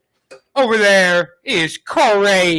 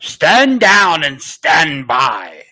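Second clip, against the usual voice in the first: dark lord; 4 dB louder, much slower than usual. Pretend.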